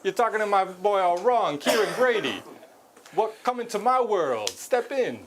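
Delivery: Christopher Walken impression. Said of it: "you're Christopher Walken".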